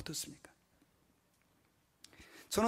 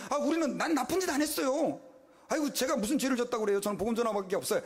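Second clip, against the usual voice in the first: a raised, protesting plea of innocence; mock protest, voice lifted; pleading defense; 5 semitones higher than usual. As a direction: act out an ordinary man defending himself. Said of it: "보통 사람 같으면 그렇게 얘기할 거예요".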